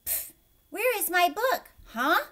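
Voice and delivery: loud, high, with sound effects for the marks; effortful loud read-aloud with pff and huh; reading with punctuation sounds. A narrator's reading. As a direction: say each mark as a silly noise. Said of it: "Gilbert took a deep breath and started".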